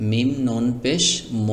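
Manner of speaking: মিম নুন নাকের ভেতর দিয়ে গুন্না করে; ম নাক দিয়ে টেনে উচ্চারণ; ikhfa ghunna. Shown as a demonstration. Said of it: "এখানে আপনি এভাবে বলতে পারেন, ইকফা গুন্না করে". (নাকি সুরে গুন্না করে পড়া)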